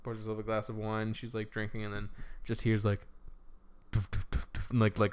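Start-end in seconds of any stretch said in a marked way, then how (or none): 3.9-4.7 dull thudding footstep noises; imitated footsteps. Storyteller imitating footsteps upstairs, dull thuds. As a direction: thud out each step with your mouth.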